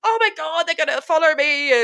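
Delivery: high start, settling quickly; a touch of mock panic; mild retold alarm. Retold fear of being followed.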